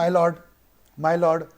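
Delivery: lightly mock the dramatic "My lord" plea; TV courtroom imitation. Teacher imitating how lawyers address judges on TV, lightly voiced. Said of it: "TV में ऐसा बोलता है".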